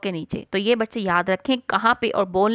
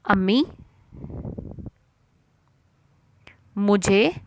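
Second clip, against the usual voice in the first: slow dictation; 2 semitones lower, slower than usual. Shown as a demonstration. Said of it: "teacher dictating dialogue slowly".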